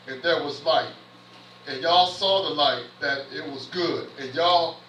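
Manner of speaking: measured, phrase-by-phrase Bible reading; preacher reading aloud from Genesis; scripture reading. Acted. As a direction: read the verse out deliberately, pausing between phrases. Reads scripture aloud to the congregation.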